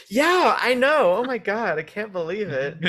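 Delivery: high, slow, exaggerated agreement; sarcastic mock gush. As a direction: ham up fake shock sarcastically. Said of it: "And like".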